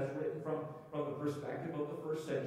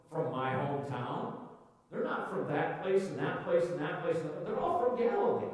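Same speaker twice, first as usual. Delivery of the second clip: puzzled crowd, pitch jumping up on key phrases; acted disbelief; 3 semitones higher than usual. Crowd in Jerusalem realising the speakers are Galileans, disbelieving.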